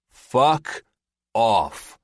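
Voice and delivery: loud strained grunt of annoyance. A narrator's reading. Soldier dragging a toilet, grunting at his teammate. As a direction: spit it out while hauling something heavy. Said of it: "Bolton grunts".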